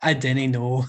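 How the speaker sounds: put-on Scottish dialect; Scottish accent. Shown as a demonstration. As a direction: say it as a Scot would, "dinnae". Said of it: "Is that a good Scottish accent".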